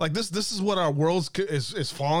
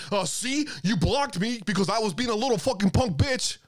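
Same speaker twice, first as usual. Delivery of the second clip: higher, sneering impression of a petty troll; mocking whiny troll; 5 semitones higher than usual. Ranting streamer mocks a troll whining about being blocked, higher sneering voice. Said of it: "attack everyone else and say".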